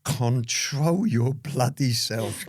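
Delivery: stern warning. Retold or imitated. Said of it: "my barrister's looking at me going like".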